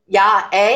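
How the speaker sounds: "yeah" as "yah", then "eh" rising; imitated Canadian tags. Shown as a demonstration. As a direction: say "yeah, eh?" as "yah, ay?", playfully questioning. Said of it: "I'm saying yeah".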